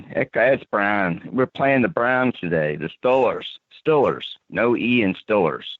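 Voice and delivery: mock Pittsburgh accent. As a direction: imitate a Pittsburgh local talking football. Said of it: "the Pittsburgh accents are hilarious".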